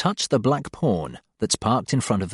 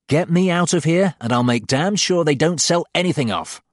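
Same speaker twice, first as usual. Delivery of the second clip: urgent, raised plea; fervent plea; 5 semitones higher than usual. Acted. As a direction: beg them fervently. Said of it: "I say fervently".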